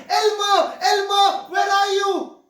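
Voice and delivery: panicked yelling. Acted. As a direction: call out in alarm, pitched well up. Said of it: "she started yelling".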